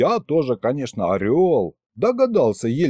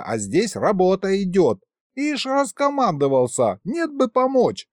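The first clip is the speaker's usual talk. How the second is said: high, shrill-free nagging scold, much higher pitch; 7 semitones higher than usual. A narrator's reading. Pregnant Elka scolds the boss for luring workers, high and nagging. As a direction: nag him like an angry housewife.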